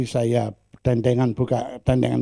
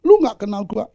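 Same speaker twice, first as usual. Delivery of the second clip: loud, higher hammed-up angry taunt; angry man; 10 semitones higher, 6 dB louder than usual. Angry man threatening the preacher, hammed-up loud taunt. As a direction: act out a hothead's threat. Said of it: "Coba kalau marah".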